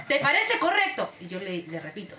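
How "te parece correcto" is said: mild mock indignation, pitched up; indignant question without really shouting; retold angry challenge. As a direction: imitate an upset client demanding agreement. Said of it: "muy molesto y gritándome".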